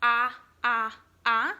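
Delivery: "Ah" said short, open and loud; short o sound. Shown as a demonstration. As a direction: stretch "ah" out as a clear model sound. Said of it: "it makes two sounds".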